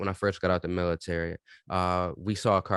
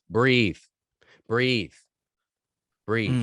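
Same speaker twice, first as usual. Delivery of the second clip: firm command, retold; 4 dB louder, much slower than usual. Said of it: "first thing out of my mouth is".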